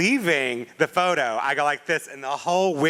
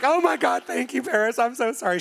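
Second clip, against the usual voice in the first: mock gushing apology; 7 semitones higher than usual. Apologizing to Paris, retold.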